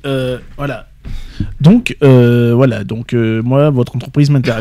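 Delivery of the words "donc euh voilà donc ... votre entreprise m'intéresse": mock slouching jobseeker, halting; slouched candidate. Shown as a demonstration. Co-host demonstrates a candidate slouched at interview, lazy hesitant delivery. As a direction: sound slumped and uncommitted between fillers. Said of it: "si c'est être avachi".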